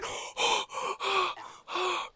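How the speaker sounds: sharp high drawn-in gasp of horror; long horrified intake of breath; terrified gasp. Real, not acted. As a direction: gasp in real fright. Monster appears suddenly.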